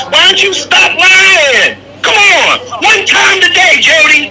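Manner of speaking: yelling, high and loud; loud sharp voice. Real, not acted. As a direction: shout him down in frustration. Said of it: "Why are you yelling?".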